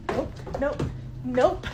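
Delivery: real startled refusal, building; spooked refusal. Real, not acted. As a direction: back away in rising panic. Backing away fast from a fright.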